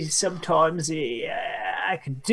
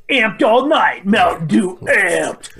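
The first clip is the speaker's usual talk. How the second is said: hype shout; 2 semitones higher, 4 dB louder, slower than usual. Pretend. Hyping the Mountain Dew image.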